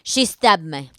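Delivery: light imitation Russian accent; Victor. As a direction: try a mild Russian accent. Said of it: "how do you do Russian?".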